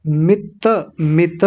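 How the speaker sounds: मित with the final "ta" fully voiced; full "ta" syllable. Shown as a demonstration. Teacher correcting a swallowed syllable, मित with full "ta". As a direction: give मित its whole second syllable, "mi-ta". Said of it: "त को पूरा बोलेंगे".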